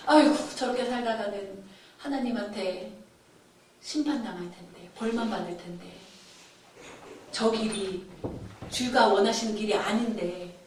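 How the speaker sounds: low, hushed lament; acted grieving, sinking low and soft; sighing lament. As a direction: sigh in sorrow for people going astray. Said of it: "하고 탄식을 한".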